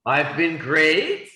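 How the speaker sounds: bright, pleased answer; cheerful reply; upbeat great. Shown as a demonstration. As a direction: say it like things are going well. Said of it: "two very easy answers".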